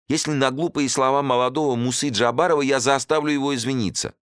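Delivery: high, eager pleading voice; pleading host. A narrator's reading. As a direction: press him hard, voice up high. Host continues pleading, cut off.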